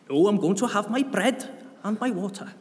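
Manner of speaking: put-on a quick, clumsy South Wales accent; Southern Welsh accent. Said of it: "my attempt to a Southern Welsh accent".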